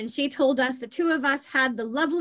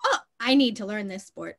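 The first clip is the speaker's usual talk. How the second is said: laughing; 2 semitones lower than usual. Retold or imitated. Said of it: "watching it and going".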